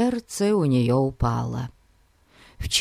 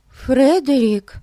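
worried; 10 semitones higher, 5 dB louder than usual. A narrator's reading. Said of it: "начала беспокоиться".

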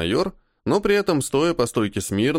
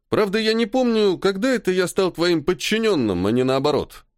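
a note of menace, pitched higher and building; commanding, threatening; 7 semitones higher than usual. A narrator's reading. Colonel reminding the major who is boss, with light menace. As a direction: lean on him like a superior putting him in place. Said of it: "Уже властнее и с угрозой в голосе".

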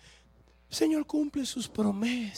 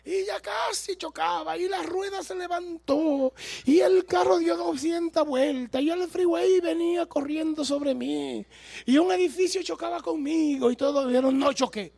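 mock dramatic testimony; 7 semitones higher, 5 dB louder than usual. Mocking exaggerated testimonies.

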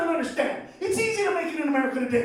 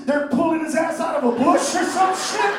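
ordinary talk

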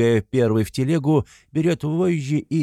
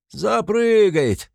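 high, loud, slow insistence; shout; 12 semitones higher, 5 dB louder, much slower than usual. A narrator's reading. Mikolka insists to the crowd, high loud shout. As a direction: stretch it out stubbornly.

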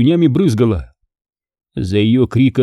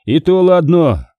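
relieved sigh; 5 semitones higher, slower than usual. Acted. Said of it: "облегчённо вздохнул Демьян".

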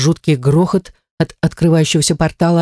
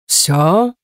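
smirking god. A narrator's reading. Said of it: "усмехнулся бог".

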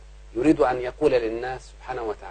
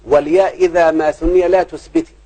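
verse recitation; 2 semitones higher, 3 dB louder than usual. Shown as a demonstration. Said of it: "بيقول في البيت".

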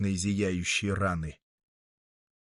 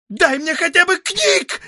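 much higher, louder frenzied cry; 8 dB louder than usual. Acted. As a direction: cry out beside yourself. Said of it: "в исступлении крикнула женщина". (в исступлении, громкий крик)

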